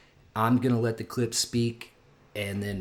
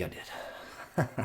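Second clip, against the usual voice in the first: laughing; 9 dB quieter than usual. Real, not acted. Laughs at his own joke.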